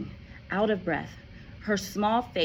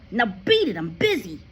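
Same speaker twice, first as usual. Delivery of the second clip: louder, brushing her off; dismissive father; 6 semitones higher, 7 dB louder than usual. A narrator's reading. Father dismisses Matilda while packing. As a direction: shoo the child away.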